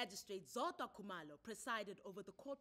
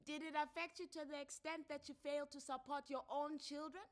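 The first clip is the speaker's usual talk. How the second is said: raised, firm official voice; counselor's questions; 8 semitones higher, 7 dB louder than usual. Acted. Counselor questioning a father who stopped paying, firm. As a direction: press him like a family court counselor.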